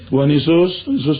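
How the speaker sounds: hissing prayer as if the food burns, laughing; lightly mimicked gasping prayer; mock spicy-mouth prayer. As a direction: imitate a teacher praying like she ate chili. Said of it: "kalau doa pakai kayak kepedesan".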